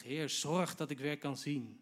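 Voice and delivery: loud, slow, emphatic appeal; unafraid demand. Retold or imitated. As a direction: demand it boldly, raising the voice. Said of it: "Hij is echt niet bang".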